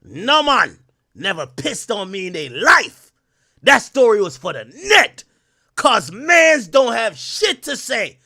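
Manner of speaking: put-on slow, loud Jamaican accent, rising in pitch; a rapper in Jamaican accent. Streamer rereading a rapper's comment to viewers, drawn-out Jamaican accent. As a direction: draw it out in a punchy mock Jamaican accent. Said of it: "the rapper type in a Jamaican accent".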